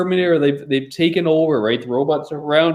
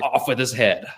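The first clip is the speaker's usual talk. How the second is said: haughty king; 4 semitones lower than usual. Pretend. Mock king orders execution.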